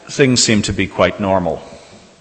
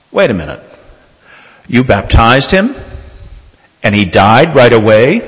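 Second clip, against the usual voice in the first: dawning disbelief; 2 semitones higher, 6 dB louder than usual. Retold or imitated. Nurse grasping what the deathbed baptism meant, incredulous. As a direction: build to an astonished question.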